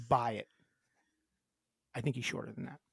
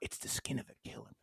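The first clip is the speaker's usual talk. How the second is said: hushed, low breath of a line; near-whispered mock confession; movie vampire quote; 6 semitones lower, 16 dB quieter than usual. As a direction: imitate a brooding screen vampire, very softly. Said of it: "It's from Twilight".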